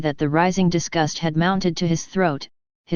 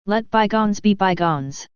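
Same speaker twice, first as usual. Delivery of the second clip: touched, warm. Acted. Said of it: "greatly touched".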